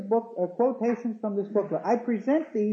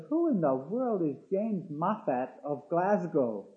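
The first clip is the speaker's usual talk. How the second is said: skeptical asker; slower than usual. Retold or imitated. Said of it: "Someone says".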